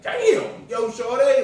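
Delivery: very high, loud street holler; mimicked man's high-pitched catcall; imitated catcall. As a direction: call out to her, floored. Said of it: "People will be like".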